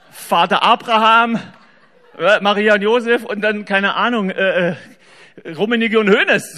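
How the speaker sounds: laughing through the punchline; breaking into real laughter. Real, not acted. To the audience about Jauch answers, laughing. Laughing at his own joke.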